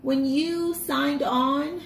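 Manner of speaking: gently imitating the sweet agent on the phone; sweet bank agent. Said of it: "she was so sweet".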